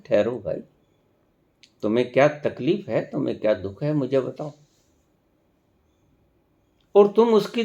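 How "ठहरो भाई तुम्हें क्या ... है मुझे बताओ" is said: mildly acted reassurance, kept soft; consoling. Comforting a dying person, soft mild consolation. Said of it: "मरते हुए को दिलासा देते हैं".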